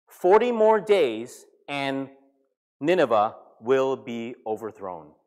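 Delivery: slow, measured declaration; drawn-out prophet's announcement; prophetic proclamation. Retold or imitated. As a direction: proclaim the warning word by word. Repeats Jonah's sermon to Nineveh.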